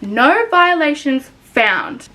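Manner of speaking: slow, sarcastic read-out; mock-reading. Real, not acted. Reading TikTok's reply aloud, slowly and sarcastic. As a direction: drag it out with disbelief.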